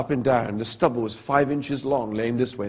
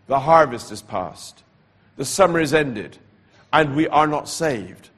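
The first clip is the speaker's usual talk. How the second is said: the voice returns, a little louder; 4 dB louder than usual. Retold or imitated. Preacher retelling the night voice, a little louder. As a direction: repeat the warning with more weight. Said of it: "I heard the voice again, louder".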